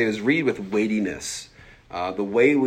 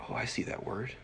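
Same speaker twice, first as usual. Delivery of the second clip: hushed, dawning noticing; quiet realization; 2 semitones higher, 10 dB quieter than usual. Acted. Listeners spotting a repeated word in the reading, quiet realization. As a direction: murmur it softly to yourself as you spot it. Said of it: "they go like".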